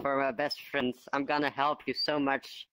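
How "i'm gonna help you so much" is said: slow, sinister promise; menacing and slow, with a dark undertone; ominous warning. Acted. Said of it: "why did you sound so ominous".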